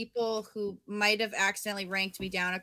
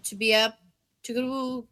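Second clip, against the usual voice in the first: sarcastic; 2 semitones lower, 3 dB quieter than usual. Retold or imitated. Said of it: "but I'm like".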